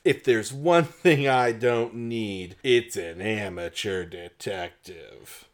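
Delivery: slow, dismissive sneer; contemptuous. Acted. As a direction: drag it out with contempt. Detective scoffs at Bess.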